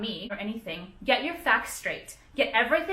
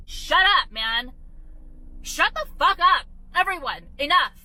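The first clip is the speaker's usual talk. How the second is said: shrill, raised scolding, much higher; angry high-pitched rant; 5 semitones higher than usual. Real, not acted. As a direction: snap at everyone to stop, voice climbing high. Ranting at critics on channel.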